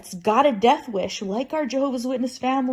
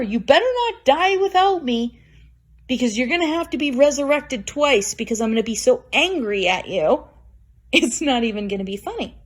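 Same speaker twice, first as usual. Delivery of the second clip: mock warning to mother. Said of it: "I've said that to her before".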